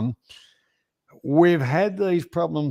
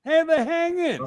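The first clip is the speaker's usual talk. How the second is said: put-on broad Aussie accent. Showing his friend how Australian mates greet each other, in an exaggerated Australian accent. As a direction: lay the Aussie twang on thick, mate. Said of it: "I can bloody talk really Aussie".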